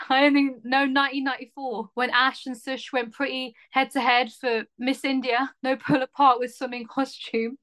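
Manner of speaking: put-on Essex accent, lightly melodramatic; a touch-indignant Essex accent. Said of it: "read it in the stylings of Essex".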